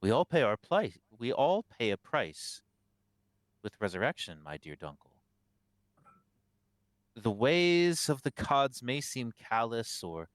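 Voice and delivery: lightly acted cleric, rising emphasis then settling; a measured sermon with swelling openings; sermonizing abbot. Game master voices the abbot.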